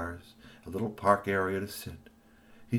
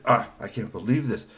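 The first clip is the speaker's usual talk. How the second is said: higher, louder anxious scolding; urgent, flustered warning; upset uncle; 7 semitones higher, 6 dB louder than usual. A narrator's reading. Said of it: "Uncle Hiyoshi said".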